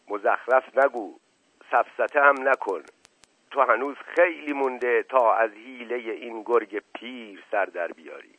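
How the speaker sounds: a mild sharp rebuke; a touch of impatience, dismissing him; sharply. Acted. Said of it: "به تندی گفت". (با تندی ملایم)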